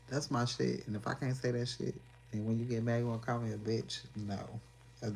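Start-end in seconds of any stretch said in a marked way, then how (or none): 0.1-0.9 laughing. Real, not acted. Laughing at own catchphrase.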